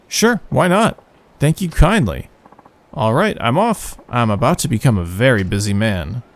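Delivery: acting out the characters' lines; reading game dialogue. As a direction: read the cutscene aloud. Reads game dialogue aloud in voices.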